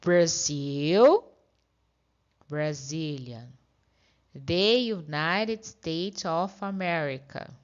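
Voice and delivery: unhurried, careful repetition of each word. Shown as a demonstration. Teacher slowing the drill so students can keep up. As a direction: take each country and nationality calmly, one at a time. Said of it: "vamos devagarzinho agora".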